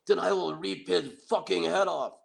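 high, hammed-up threatening yell at the camera; retold yell. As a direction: snarl it out like a mock tough guy. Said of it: "glares right in the camera and yells".

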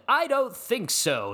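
mock refusal. Acts out Drew's refusal to Bob.

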